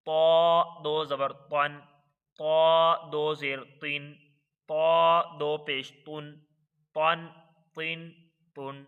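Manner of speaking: slow, even chant of letter, harakat, sound; Qaida spelling drill. Shown as a demonstration. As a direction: sound it out syllable by syllable for the class. (قاعدہ کی ہجے کی مشق، ٹھہر ٹھہر کر)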